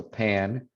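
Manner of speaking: pan with an aspirated English P. Shown as a demonstration. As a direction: say "pan" with a puff of air on the p. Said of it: "there's more air coming out".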